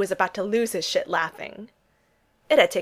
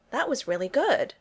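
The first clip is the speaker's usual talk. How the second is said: polite; 5 semitones higher than usual. A narrator's reading. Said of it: "he said politely".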